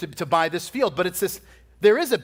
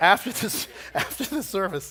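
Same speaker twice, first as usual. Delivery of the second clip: talking while laughing. Telling a funny story from years ago, laughing while talking. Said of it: "I'm making myself laugh".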